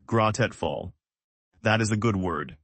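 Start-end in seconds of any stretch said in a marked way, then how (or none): 0.1-0.9 grateful drawn out slowly, each syllable clear. Shown as a demonstration. Teacher models the word for students, slowly. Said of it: "Say it slowly".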